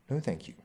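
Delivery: a firm, pointed no; emphatic. A narrator's reading. Wife turning down her husband's offer, lightly emphatic. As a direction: decline it with a touch of finality. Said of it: "said Jane emphatically".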